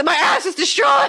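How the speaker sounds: high, loud melodramatic wail; imitated screech. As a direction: cry it out in mock agony, on the edge of laughing. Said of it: "just screeching and going".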